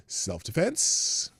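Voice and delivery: whispered sarcastic aside. Acted. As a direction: drop to a breathy secret whisper.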